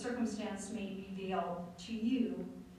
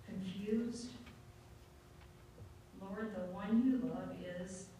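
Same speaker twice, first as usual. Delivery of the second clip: prayer; slower than usual. Acted. Pastor leads the bowed congregation, slow gentle prayer. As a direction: pray it slowly and gently.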